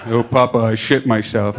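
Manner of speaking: put-on low, grown-up voice for a child; deep-voiced kid. Imagined deep-voiced son confessing to Papa, low voice. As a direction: play a child with a man's deep voice. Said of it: "if he had a deep voice".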